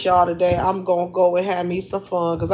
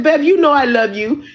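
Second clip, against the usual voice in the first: laughing through a higher quote; 5 semitones higher than usual. Retold or imitated. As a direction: giggle while quoting him sweetly. Quoting boyfriend while laughing.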